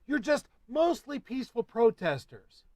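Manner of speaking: high, loud mocking sneer; sarcastic. Real, not acted. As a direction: drip with scorn. Sarcastic jab.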